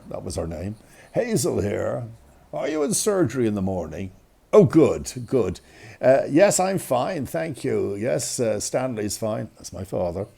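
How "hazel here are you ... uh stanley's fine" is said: mother's formal phone manner, lightly imitated; a hint of a professional telephone voice; doctor's voice. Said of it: "the doctor's voice on the phone".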